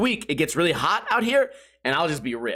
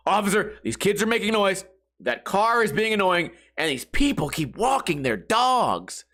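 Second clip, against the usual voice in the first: Karen mode; 2 semitones higher than usual. Pretend. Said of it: "going full Karen mode".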